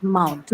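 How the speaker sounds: "Mount" with its first schwa all but dropped; one stressed syllable, hardly any "a" before it; schwa barely audible. Shown as a demonstration. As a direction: swallow the opening uh before "Mount". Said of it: "It's barely audible".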